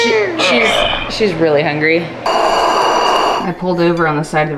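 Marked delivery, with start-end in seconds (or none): 0.0-0.7 put-on baby talk. Mom coos at baby.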